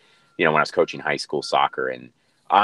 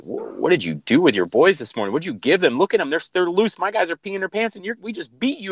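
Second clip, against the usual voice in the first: much higher, mock-astonished coach; amazed rival coach; 13 semitones higher than usual. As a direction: play the stunned opposing coach, pitch way up. Rival coach amazed, voiced in story.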